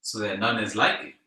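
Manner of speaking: scripture read at full force; loud scripture reading. Acted. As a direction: proclaim it like a preacher.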